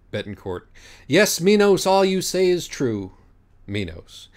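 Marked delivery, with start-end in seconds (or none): 1.1-3.1 higher, louder ceremonial assent; a lightly voiced dignified judge; solemn agreement. Betancourt agreeing with Minos, high and ceremonial.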